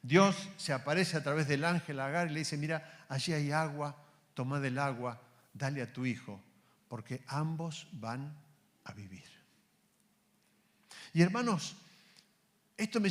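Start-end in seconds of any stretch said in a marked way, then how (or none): 2.6-8.4 soft, fading gently; angel's comfort. Acted. Angel telling Agar where the water is, gently and soft. 8.8-9.2 whispered promise. Acted. Angel promising Agar they will live, whispered.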